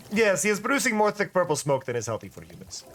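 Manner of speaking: fake accent. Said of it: "with the fake accent".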